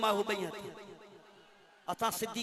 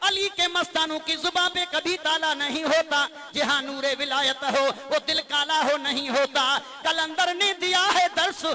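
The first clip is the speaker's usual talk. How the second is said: rhythmic, chanted delivery of couplets; declaimed verse recitation; 7 semitones higher, 7 dB louder than usual. Acted. Reciter telling of Ali's devotees, declaimed devotional verse. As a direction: recite with a steady lilt and lingering endings.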